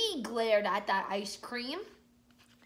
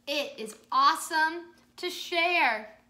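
cheerful Joe voice; 4 semitones higher, 8 dB louder than usual. Acted. Joe's line in children's story.

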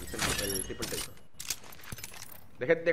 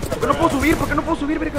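frustrated; 8 semitones higher, 5 dB louder, much faster than usual. Real, not acted. Stuck, can't climb.

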